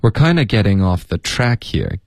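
"kinda" prominent, "getting" passed over lightly; unstressed getting. Shown as a demonstration. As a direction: keep the stress off "getting". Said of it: "Getting的get别加重音".

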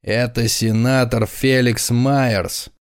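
slow, solemn reveal; solemn announcement. Acted. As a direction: announce it slowly and grandly. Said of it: "торжественно произнёс".

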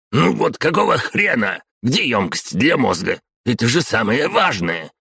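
high, loud outburst; exclaiming. A narrator's reading. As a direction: cry out, high and irritated. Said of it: "а затем вскрикнул".

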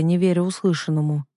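usual speaking voice

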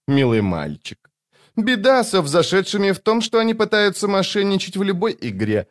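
high, teasing woman's voice; mocking young woman. A narrator's reading. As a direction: purr it with amused contempt.

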